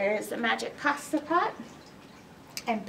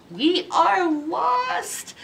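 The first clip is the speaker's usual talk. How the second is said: despairing; 6 semitones higher, much slower than usual. Acted. Townspeople in despair.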